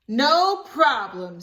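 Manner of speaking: high, loud, slow happy reply; cheerful child voice. Acted. Libby agreeing to help Willie, high and glad. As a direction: answer gladly like a little girl.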